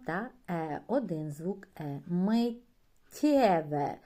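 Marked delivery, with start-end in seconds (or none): 2.1-4.0 Миттєве slow and loud with a long soft тт; slow model word. Shown as a demonstration. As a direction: stretch the тт in Миттєве. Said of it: "Знову пом'якшення попереднього".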